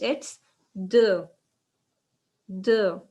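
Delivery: Deux with a rounded uh vowel, said firmly; model pronunciation. Shown as a demonstration. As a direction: model Deux clearly for the class. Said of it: "we say two in French".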